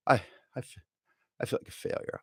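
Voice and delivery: hushed mock confession; whispering. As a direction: whisper it like a secret. Self-pity aside, whispered.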